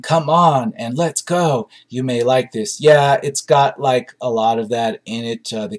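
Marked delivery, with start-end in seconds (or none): 0.0-0.7 raised, higher mock shout of come on; imitating a frantic movie hero shouting; mock movie yell. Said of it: "If you like people yelling". 1.0-1.7 higher pitched mock shout of let's go; imitating a frantic movie character yelling. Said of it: "If you like people yelling".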